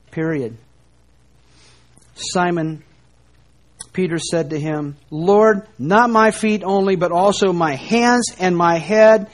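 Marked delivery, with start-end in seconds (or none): 5.1-9.3 louder, higher, all-in outburst; eager exclamation. Retold or imitated. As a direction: blurt it out, overeager to be washed all over. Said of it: "Exclamation point".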